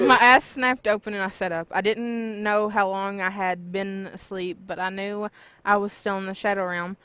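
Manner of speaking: ordinary delivery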